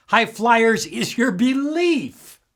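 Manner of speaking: getting carried away with excitement; too excited. Real, not acted. Coach getting carried away pitching belief, excited. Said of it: "oh, I'm getting too excited about this".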